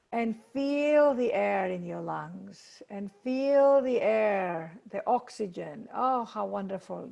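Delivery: measured meditation guide, pausing between phrases; guided meditation. Acted. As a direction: lead them gently through each step, drawing out key words. Leads a meditation.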